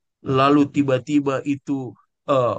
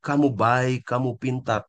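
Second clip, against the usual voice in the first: doting praise; 3 semitones lower than usual. Retold or imitated. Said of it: "dia bilang".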